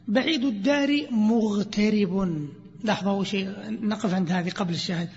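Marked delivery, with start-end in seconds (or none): 0.1-2.5 drawn-out poetic recitation; slow recited verse. Shown as a demonstration. Teacher chanting a poetry line to students, slowly. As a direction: stretch each word of the verse.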